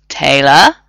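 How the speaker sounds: tense loud call; tight, worried plea; strained. A narrator's reading. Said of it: "Ronan sounded strained".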